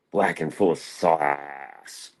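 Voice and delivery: drawn out very slowly, word by word; slow punchline. Pretend. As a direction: savour each word like a punchline. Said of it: "Like I like my women".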